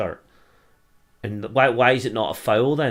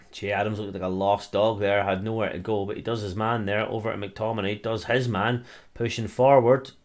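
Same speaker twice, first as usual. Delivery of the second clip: live play-by-play. Acted. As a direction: call the attack like a pundit on the telly. Fan commentating the match live.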